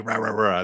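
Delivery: quick mock barking; imitated dog bark. Reader voicing a dog barking at a passer-by, mock bark. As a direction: bark it out in rapid bursts. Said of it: "this dog just starts barking at you".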